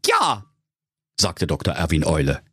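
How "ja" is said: owl doctor voice. A narrator's reading. Owl answers.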